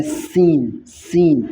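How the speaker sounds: سین with a sharp whistling s sound. Shown as a demonstration. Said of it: "سین سیٹی کی طرح اس کی آواز نکالنی ہے". (سیٹی کی طرح سین)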